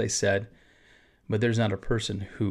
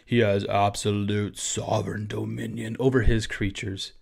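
deep voice. Real, not acted. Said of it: "that's like a deep voice there again".

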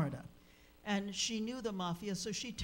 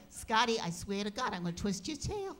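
scolding the dog; 3 semitones higher than usual. Retold or imitated. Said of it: "scolding the dog again".

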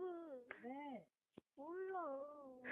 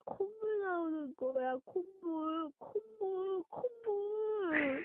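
crying. Real, not acted. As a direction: cry through a runny nose. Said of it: "너 목소리 완전 그래".

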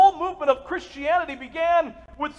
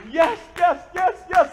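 cheering; 6 semitones higher, 4 dB louder, slower than usual. Retold or imitated. Family cheering at the door.

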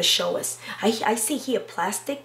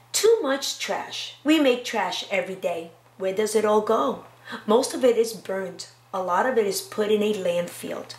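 put-on reading to children. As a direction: read it aloud to a class. Reads picture book aloud.

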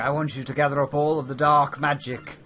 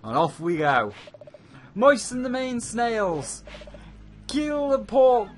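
pirate captain voice; 6 semitones higher than usual. Pretend. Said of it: "see if I've really got what it takes to be a pirate".

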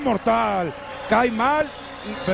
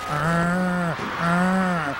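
crowd groan; 5 semitones lower than usual. Retold or imitated. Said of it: "mejor le dicen".

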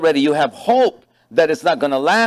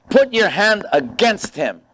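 slow and higher, pressing the request; devil's demand; 5 semitones higher than usual. Retold or imitated. Devil urging God to strike Job, slow. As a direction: lean on it slowly like a scheming tempter. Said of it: "the devil said to God".

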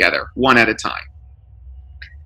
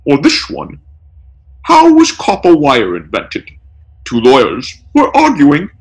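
higher, louder punchline delivery; gleeful joke-telling burglar; 6 semitones higher, 4 dB louder than usual. A narrator's reading. Burglar mocks the taped-up lawyers with jokes, louder. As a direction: land the punchline like a heckler.

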